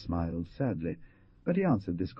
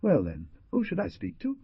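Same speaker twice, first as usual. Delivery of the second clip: insolent; 10 semitones higher than usual. Acted. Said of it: "replied Rupert insolently".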